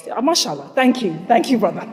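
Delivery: ordinary talk, nothing marked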